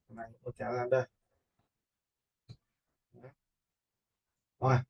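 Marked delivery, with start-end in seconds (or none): none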